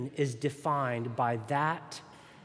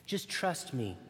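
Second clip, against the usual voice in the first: serpent whispering; 5 dB quieter than usual. Acted. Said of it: "the serpent whispered".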